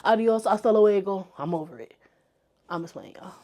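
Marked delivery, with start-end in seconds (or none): 1.4-3.3 softer, lower, drooping finish; mock defeat, trailing off; dramatic resigned sigh. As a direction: let it fall away wearily. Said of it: "That was, that was extra and cheesy".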